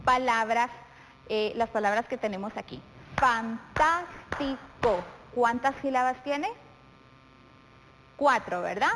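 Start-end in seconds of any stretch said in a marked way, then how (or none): 3.2-5.0 "Fantástico" slowly split into syllables, fan-tás-ti-co. Shown as a demonstration. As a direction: say "Fantástico" in four separate, drawn-out beats. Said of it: "separándolas en sílabas".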